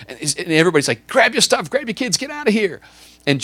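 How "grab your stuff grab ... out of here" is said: high, loud frantic yell to flee; a congregant screaming at everyone to run; panicked shout. Acted. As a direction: shout them out the door in panic. Panicked crowd urging escape.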